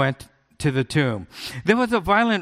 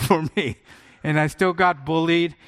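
normal talking voice

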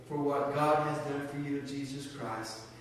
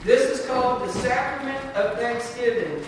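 raised, higher solemn announcement; solemn closing blessing; 6 semitones higher, 9 dB louder than usual. Real, not acted. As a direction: announce the blessing, lifted and louder. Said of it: "stand with me this morning for the benediction".

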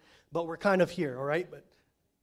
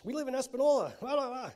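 mock whiny excuse; 8 semitones higher, faster than usual. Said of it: "they didn't say that".

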